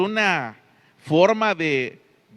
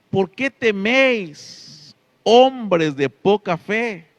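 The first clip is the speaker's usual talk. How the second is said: stern rebuke; 3 semitones higher, 5 dB louder, much slower than usual. Acted. Jesus rebukes in the storm.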